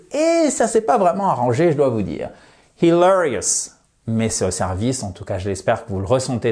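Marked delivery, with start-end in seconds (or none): 2.8-3.7 "Hilarious" stressed on LA; "Hilarious" with weight on the second syllable. Shown as a demonstration. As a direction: lean on the LA of "Hilarious". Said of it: "mettre notre accent tonique ici".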